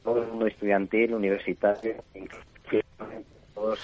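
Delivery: bad phone line; tinny talking telephone. Real, not acted. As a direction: voice through a broken phone connection. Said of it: "se oye fatal".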